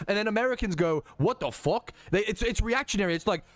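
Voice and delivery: put-on loose British accent, slipping at times. Reasoning about both countries, put-on British accent. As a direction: make the case in a pretend British accent. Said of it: "in the British accent".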